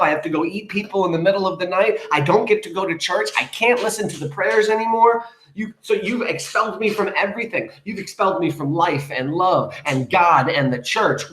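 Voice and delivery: high, aggrieved daughter's rant; mock yelling at mom. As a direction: pile up complaints against mother. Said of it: "while she's yelling at her mom".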